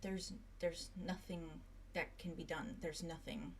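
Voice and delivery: slow, soft despair; hopeless quiet. Acted. Silas telling Arlo there is no cure, quiet despair. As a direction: let the hope drain out.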